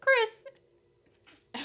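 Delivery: high loud call across the room. Real, not acted. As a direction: call his name out loud.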